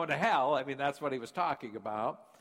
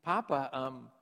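put-on high, louder call of a little girl; child calling Papa; 4 semitones higher, 5 dB louder than usual. Daughter calling to her father after the movie, high and eager. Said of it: "she says".

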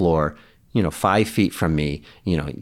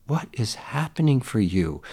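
softer, higher, gentle question; soft-voiced parental concern; retold tender dad; 4 semitones higher, 6 dB quieter than usual. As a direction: ask tenderly, as if holding an upset child. Dad hugs and gently asks daughter.

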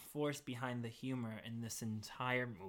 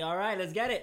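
higher, louder hype; excited; 5 semitones higher, 6 dB louder than usual. Retold or imitated. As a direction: pump yourself up. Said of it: "And then I'm like".

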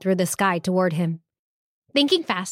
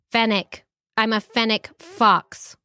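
gruff reply. Acted. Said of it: "Fig replied gruffly".

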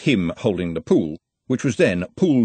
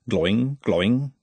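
slow imitated ball bounce; slow, ringing boing; bouncing ball noise. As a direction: sound out a bouncing ball, drawn out.

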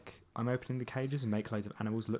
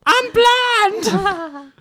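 shouting; 15 dB louder than usual. Acted. Anchorman quote, blinded character.

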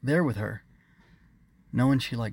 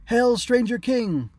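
high, loud, slow chant; crowd shout; 13 semitones higher, 7 dB louder, slower than usual. A narrator's reading. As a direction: answer the hail together. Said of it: "the others answered".

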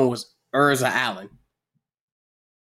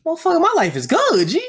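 E A voiced; 13 semitones higher than usual. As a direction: play the kid without a care, pitched up high. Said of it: "E A like".

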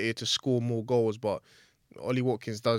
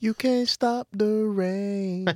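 slow, drawn-out movie line; milk it like a film trailer; slow mock-epic line; dramatic quote; 9 semitones higher, much slower than usual.

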